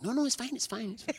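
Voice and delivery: high, sing-song imitation of colleagues reassuring him; mock reassurance. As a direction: brush off his worry in a high, breezy voice. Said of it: "And they were like".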